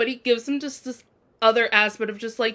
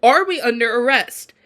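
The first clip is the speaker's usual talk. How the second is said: louder, defiant mock of Annabeth's line; sassy challenge; 6 dB louder than usual. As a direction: throw the question back with attitude. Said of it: "she was saying, she was like".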